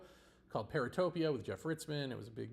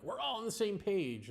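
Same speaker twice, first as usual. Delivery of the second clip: "We're all on the same page" said higher and chirpy, a lightly mocking imitation; mock cheerful assumption; 6 semitones higher than usual. Mocking buzzword fans who think they agree, lightly mocking chirpy imitation. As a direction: parrot their smug agreement, lifting "all". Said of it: "then they think, like".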